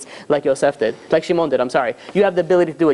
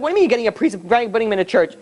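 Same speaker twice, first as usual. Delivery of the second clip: fast, higher-pitched objection; acted-out agitated questioning; incredulous protest; 5 semitones higher, faster than usual. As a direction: rattle it off in disbelief. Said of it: "going crazy".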